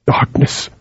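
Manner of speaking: breathed out as a whisper. A narrator's reading. Harim naming what he fears, whispered. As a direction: barely let the word escape. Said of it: "he struggled with himself".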